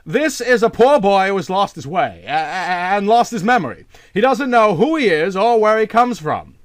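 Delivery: high, loud flustered rush with a stammer; nervous man explaining the naked boy to his aunt; desperate explaining. A narrator's reading. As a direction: cover up in a panic. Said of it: "explained Van Cheele, desperately".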